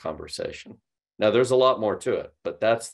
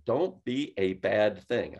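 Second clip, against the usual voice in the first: scolding; much slower than usual. Retold or imitated. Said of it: "your mom told you and your dad told you".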